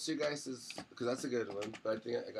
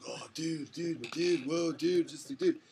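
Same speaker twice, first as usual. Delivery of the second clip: mock awestruck teen; 4 semitones higher, slower than usual. Imitating wandering seventeen-year-old bandmate.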